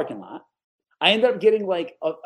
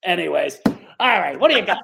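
louder brusque boss; imitating loud boss; 7 dB louder than usual. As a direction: bark it out as the boss. Boss dropping the bit, loud.

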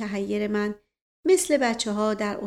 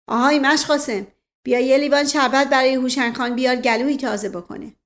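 louder call across the garden; 3 semitones higher, 6 dB louder than usual. Acted. Uncle calls out loudly to his servant for sherbet. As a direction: call out to Mash Ghasem.

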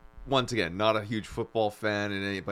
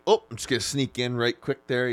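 lightly voiced Midwestern dad squeezing past; a hint of a polite Midwestern dad; 3 semitones higher than usual. Two dads cooking together in a sketch, lightly imitated Midwestern dad. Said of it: "it was two Midwestern dads".

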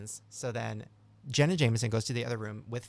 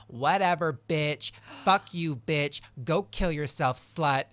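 acted-out snapping insult, raised a little; retold angry insult; 3 semitones higher, 4 dB louder, slower than usual. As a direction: mimic a housemate lashing out. Retold insult from housemate Farrah.

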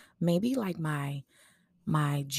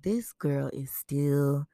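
amused; slower than usual. Retold or imitated. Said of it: "It'll just be like".

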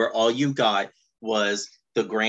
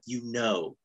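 deadpan mumble; 6 semitones lower, 12 dB quieter, slower than usual. Retold or imitated. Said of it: "Lifeline is like".

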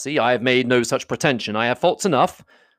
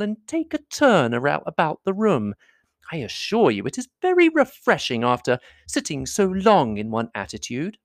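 a hint of a higher, sugary lady; coaxing Miss Bingley; 6 semitones higher than usual. Miss Bingley to Elizabeth, inviting a walk, lightly coaxing. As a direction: sweet-talk her into a walk.

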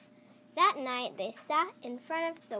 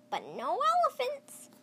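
firm grandma refusal; 12 semitones higher, 4 dB louder than usual. Acted. Grandma refuses, high pitch.

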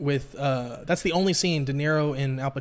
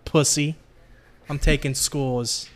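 put-on Italian accent; 2 semitones lower than usual. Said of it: "Your Italian accent is not bad".

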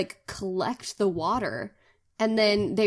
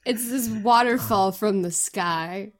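laughing; slower than usual. Real, not acted. Explaining rain while cracking up.

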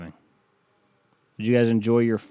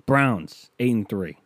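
sports-radio call; slower than usual. Shown as a demonstration. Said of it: "sports talk".

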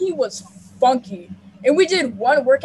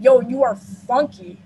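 slow, blunt, clumsy blurt; just say it out, slowly and bluntly; blunt awkward blurt; 3 dB louder, slower than usual. Retold or imitated. Teen to the smelly freshman, a slow blunt blurt. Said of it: "I ended up saying it stupid".

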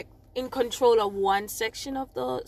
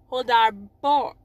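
put-on slow, louder twang on Old Harbor; exaggerated twang; 5 dB louder, slower than usual. Shown as a demonstration. Speaker hamming up the accent, slow twang. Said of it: "is the twang".

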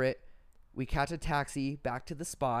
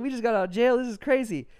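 alarmed excitement; 10 semitones higher, 9 dB louder than usual. Retold or imitated. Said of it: "And I was like".

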